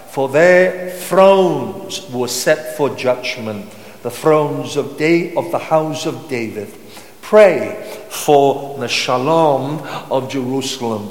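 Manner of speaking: slow, weighty psalm reading; drawn-out key words, deliberate pauses; scripture reading. Acted. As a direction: proclaim the verse slowly to a congregation. Reads psalm aloud to congregation.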